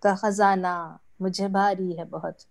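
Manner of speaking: mushaira-style poetry reading; ghazal recitation. Acted. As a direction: recite each half-line deliberately, pausing before the refrain.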